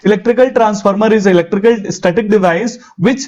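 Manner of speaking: very slow, each word spaced out like dictation; dictated model answer. Shown as a demonstration. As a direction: spell the definition out for the class.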